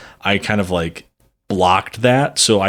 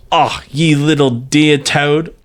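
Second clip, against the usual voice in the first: mocking woman's voice; 5 semitones higher, slower than usual. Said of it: "mimic the language of women".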